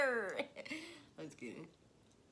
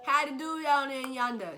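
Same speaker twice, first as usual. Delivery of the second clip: louder, higher hammed-up hillbilly; country accent; 3 semitones higher, 10 dB louder than usual. Greeting strangers in an over-the-top country accent. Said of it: "Country, country as fuck".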